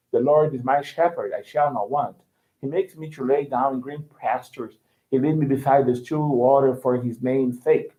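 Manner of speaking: American recitation with every R sounded; American accent, Rs clearly pronounced; American rhotic accent. Shown as a demonstration. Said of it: "Sounds are always clearly pronounced".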